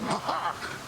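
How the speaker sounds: short, pleased ha-ha; gloating laugh. Acted. Sea god boasting to his niece, gloating laugh. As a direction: laugh in triumph at your own feat.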